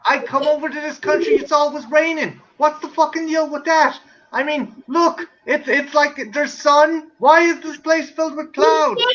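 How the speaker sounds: complaining American tourist; American tourist accent. Acted. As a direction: gripe in an exaggerated American accent. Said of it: "the worst is American tourists".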